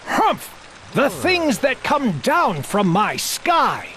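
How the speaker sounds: put-on a grumpy old king muttering into his whiskers; lightly voiced grumbling old king. A narrator's reading. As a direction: sputter it out like a cranky king. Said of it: "muttering and sputtering through his royal whiskers".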